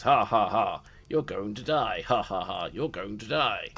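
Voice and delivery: a lightly voiced repeating animatronic taunt; an automaton looping its threat without much force; mechanical villain loop. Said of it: "animatronic Strahd repeats, retreating".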